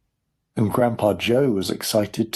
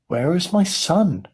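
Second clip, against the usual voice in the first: high, slow worried wail; distressed cry; 8 semitones higher than usual. A narrator's reading. Mother searching for her son, distressed cry. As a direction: cry out slowly, pitched up. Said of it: "cried Missus T V".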